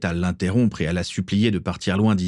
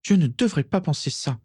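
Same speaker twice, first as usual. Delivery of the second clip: high-pitched, despairing wail at normal volume; anguished self-reproach; distraught moan; 8 semitones higher than usual. A narrator's reading. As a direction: moan it, appalled at yourself. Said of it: "gémit Bellatrix catastrophée".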